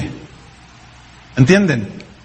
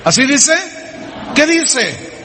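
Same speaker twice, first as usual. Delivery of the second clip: challenging call; 5 semitones higher than usual. Real, not acted. Preacher challenges the congregation.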